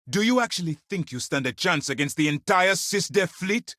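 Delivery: high-pitched, incredulous anger; scornful, heated question; indignant challenge. Acted. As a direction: confront them in disbelief. Commander challenges a threat.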